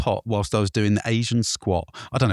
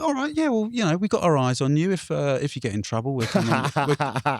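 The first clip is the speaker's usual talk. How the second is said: patrol officer; 4 semitones higher than usual. Retold or imitated. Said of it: "he was like".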